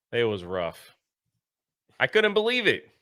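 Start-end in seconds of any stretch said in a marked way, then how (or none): 0.1-1.0 mock heartbroken. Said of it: "I was heartbroken and shattered".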